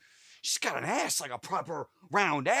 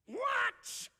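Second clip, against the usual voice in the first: surprised shout; 6 dB quieter than usual. Acted. Sudden shout in game.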